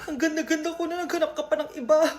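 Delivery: fast, hammed-up crying; mock sobbing. Heartbroken student crying over a boy. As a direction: blubber through the complaint.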